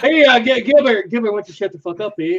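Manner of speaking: lightly put-on Canadian accent; tough-guy Canadian accent, eh. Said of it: "trying to do a Canadian accent".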